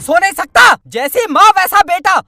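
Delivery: angry grumble. Acted. Father scolds son.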